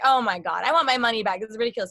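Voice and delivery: loud mock outrage; playful exasperated complaint; indignant. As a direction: protest it loudly, retelling your reaction. Retelling own indignant first reaction.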